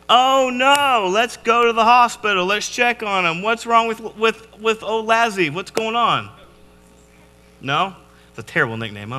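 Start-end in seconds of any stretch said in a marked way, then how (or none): 0.1-6.3 higher, hurried fretting voice; mildly hammed-up worry; mock panic. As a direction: playfully act alarmed at bad news. Parody of Jesus panicking at news.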